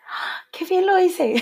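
high, slow, laughing self-praise; satisfied laughing quote. Retold or imitated. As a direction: savor it with a laugh, pleased with yourself. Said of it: "y dices".

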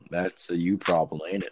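badly faked Southern accent. Friend brushing off criticism, mock Southern accent. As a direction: put on an unconvincing Southern twang. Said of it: "y'all can't do a proper Southern accent".

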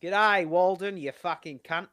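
put-on Aussie greeting, starting loud; amateur Australian accent; standard Australian accent. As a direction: attempt a broad Australian mate's hello. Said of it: "I can only do the standard Australian accent".

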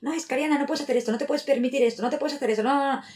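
high, nagging devil on your shoulder; demon voice. Pretend. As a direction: scold like a little inner demon. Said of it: "es esa voz de demonio".

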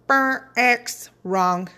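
mock buzzer sound then wrong; game show buzzer. Shown as a demonstration. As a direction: buzz it like a game show fail. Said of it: "That's the wrong way".

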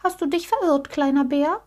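high, gently pitying question; compassionate. A narrator's reading. Rabbit asking the lost little bear, pitying voice. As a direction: ask with sympathy, voice lifted. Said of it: "fragte der Hase mitleidig".

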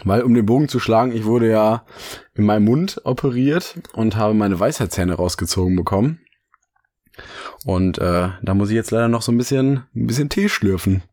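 vorsichtig sprechen, Mund geschont; nach Weisheitszahn-OP. Real, not acted. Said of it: "meine Mundhöhle schonen". (schonend, nach der Zahn-OP)

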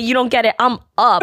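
"up" punched as the last word; mock-insist, landing hard on "up"; retold insistence. Imitating still-drunk friend who won't be doubted, "up" stressed. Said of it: "she kept saying it like that".

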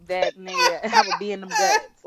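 high, breaking into laughter mid-quote; can't get the words out for laughing; laughing through it. Real, not acted. Laughing while quoting Tormund's thoughts.

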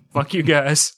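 mock angry rant. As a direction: rant it for laughs.

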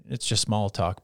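normal talking voice

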